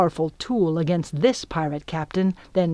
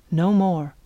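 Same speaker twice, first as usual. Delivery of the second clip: ordinary delivery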